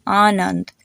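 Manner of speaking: "Anand" with ah as in car, then uh as in fun. Shown as a demonstration. Teacher introducing an example name, "Anand" as AH-nund. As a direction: open first A, short second A in "Anand". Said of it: "first A has a ah sound".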